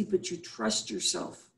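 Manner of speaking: hushed, slow reassurance; slow whisper. Real, not acted. Wellness host guiding listeners.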